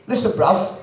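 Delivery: mock London rap producer with a Cockney accent; hammy, amateur Cockney; bad Cockney accent. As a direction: put on a clumsy Cockney accent. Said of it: "They speak like that, ... That's shit cockney accent".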